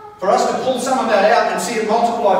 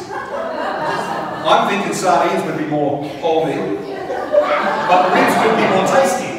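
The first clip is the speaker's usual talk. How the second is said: laughing; slower than usual. Real, not acted. Joking about holy lunch.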